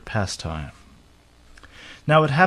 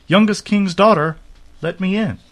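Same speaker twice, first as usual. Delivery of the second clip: high, loud call through a door; 9 semitones higher, 6 dB louder than usual. A narrator's reading. Frog knocking at the princess's door, high insistent call. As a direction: summon someone from outside, pitched high.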